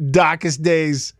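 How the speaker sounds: slow, amused Boston accent mimicry; drawn-out Boston accent with a laugh. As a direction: echo it in mock Boston accent. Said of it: "have a cool accent".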